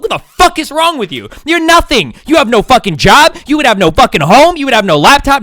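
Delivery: put-on heated lecture aimed at a mouthy teenager; pretend scolding rant. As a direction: chew out the kid like an angry parent. Scolding a disrespectful teen.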